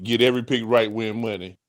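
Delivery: mocking the sleepy ad read. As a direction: imitate the drowsy sponsor read. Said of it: "And then you said".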